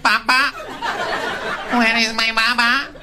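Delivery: put-on high, loud child's wail; mock crying kid calling for his dad; imitating a lost child; little kid. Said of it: "the kid was like".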